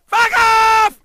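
loud, high furious fuck off in a different voice; high shouted curse; angry shout. Retold or imitated. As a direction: snap it back as a yelled insult. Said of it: "He said".

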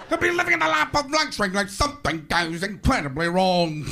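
put-on show-host voice; lightly hammed-up TV host narration; Robin Leach. TV host on a celebrity's luxury, host impression.

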